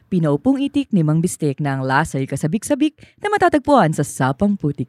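formal broadcast read; radio news announcer. Shown as a demonstration. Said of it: "Sample nga, sample".

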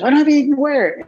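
high, fast, flustered protest; 1 flustered excuse. Retold or imitated. Stressed student rushing, pleading with his friend, high and fast. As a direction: blurt it out, panicked and rushed. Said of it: "He goes".

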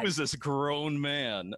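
high, slow incredulous question; mock bewilderment. Streamer hearing their own recorded voice, mock bewilderment. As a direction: draw it out in baffled disbelief.

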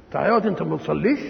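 brisk reproachful question, rising end; disapproving question. Acted. Visitor challenges friend's son for not praying, brisk mild disapproval. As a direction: quickly challenge him with mild disbelief. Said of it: "أنك تنكر عليه إنه ما يصليش".

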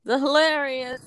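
grand stage announcer intro. Pretend. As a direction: announce her like a showman. Announcing a comedian.

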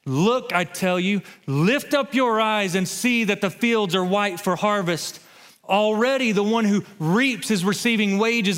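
slow, high, building scripture reading; preacher reading scripture aloud, swelling to full force; preaching scripture. Acted. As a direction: proclaim the verses with rising fervor. Preacher reads scripture at rising force.

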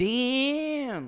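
high, loud burst of amazement; amazed exclamation. Real, not acted. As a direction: blurt it out in shock. Reacts to 25 years.

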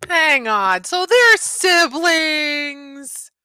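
slow, high, loud shout of discovery; real amazed shout; surprised realisation. Real, not acted. Parent realises story twist.

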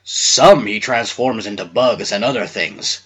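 low, slow bear voice; growling bear. A narrator's reading. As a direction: growl it slowly, deep in the register. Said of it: "growled the bear's head".

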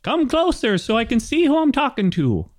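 high-pitched hail to strangers; calling out. Acted. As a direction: call out high, drawing out the hello. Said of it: "you hear someone shout out".

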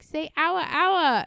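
imitated girlfriend coaxing; in the manner of a pop singer. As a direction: pitch it up and press the request. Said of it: "she's like".

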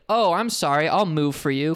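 fake-polite snark, landing on a rising end; snarky. To a man who pushed past, snarky mock apology. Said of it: "That was the snarkiest I've ever been to a stranger".

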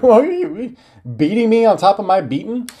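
high, loud indignant outburst; indignant squeal. Retold or imitated. Kid squealing back at his yelling mom, indignant. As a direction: shriek it in mock disbelief.

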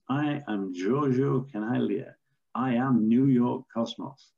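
a light, mock Italian accent on the footballer's boast. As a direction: imitate the Italian star announcing himself, only a hint of Italian. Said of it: "in his Italian accent".

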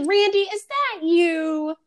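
slow, high eerie phone voice; Ghostface impression. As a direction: drawl it like the masked caller. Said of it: "good Ghostface impression".

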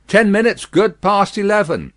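guard's loud reply; calling back. A narrator's reading. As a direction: holler the time across. Guard calls the time back.

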